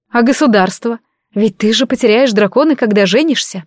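ordinary delivery

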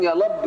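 high "يا لب" with L for R; copied speech impediment. Acted. Believers repeat after their prophet, R said as L. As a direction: parrot "يا لب", R turned to L. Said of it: "يقولوا كده الناس المؤمنين".

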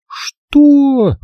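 high, loud startled cry; shocked gasp. A narrator's reading. Jigger gasps at Miss Rushby's offer, shocked. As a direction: blurt out in shock. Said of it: "Джиггер ахнула".

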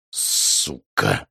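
low, soft «Сука!» forced out through the teeth; curse through teeth. Acted. Xiao trapped by the bomb deadline, curse through teeth. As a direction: grind «Сука!» out quietly through clenched teeth. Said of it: "процедил он".

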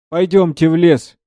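tearful voice. Acted. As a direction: beg him through tears to go to the woods. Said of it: "Плачущим голосом". (плачущим голосом, умоляя)

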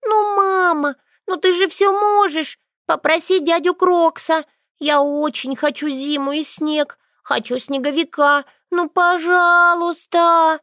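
put-on high, loud child's wail, slowing on пожалуйста; a girl sobbing and begging her mother; crying out loud. A narrator's reading. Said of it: "заплакала она в полный голос". (плач в полный голос)

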